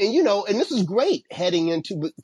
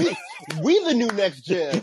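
mock chest-out boast, higher voice; Djokovic boasting; 4 semitones higher than usual. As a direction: imitate a champion's brag, amused. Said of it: "put his chest out".

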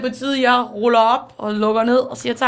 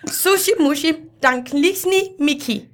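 higher-pitched made-up Japanese recital; mock Japanese; 4 semitones higher than usual. Mum reads the manga story aloud, mock Japanese. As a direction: recite nonsense as if reading Japanese. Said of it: "Hun tager den på japansk".

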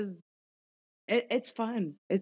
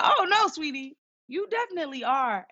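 high, slightly louder sweet nurse voice; imitating gentle nurse; 9 semitones higher, 4 dB louder than usual. Nurse insisting she's pregnant, high and sweet. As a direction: coo the bad news kindly.

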